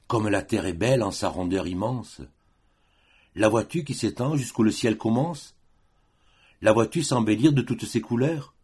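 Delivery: verse dialogue lifting on the questions; lyrical admiration. Acted. One of two voices shows the other the beautiful earth, lyrical admiration. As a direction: marvel aloud in declaimed verse, rising as you ask.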